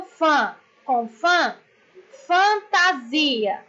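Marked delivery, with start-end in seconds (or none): 2.3-3.6 FANTASIA slowly syllable by syllable, weight on SI; stress on SI. Shown as a demonstration. Teacher showing pupils the tonic syllable, slow FANTASIA with stress on SI. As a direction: sound out FAN-TA-SI-A, leaning on SI. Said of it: "sílaba tônica".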